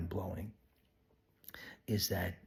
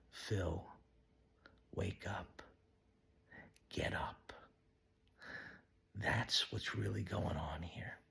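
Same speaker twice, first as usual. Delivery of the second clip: soft, whispered call; whispered inner voice; 9 dB quieter than usual. Real, not acted. Heavenly Dad to Phil, softly whispered. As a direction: whisper it like a voice within.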